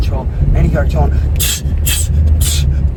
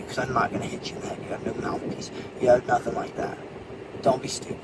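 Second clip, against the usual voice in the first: much softer, almost whispered; calmly lecturing the kid he beat; quiet, calm talk-down; 9 dB quieter than usual. Retold or imitated.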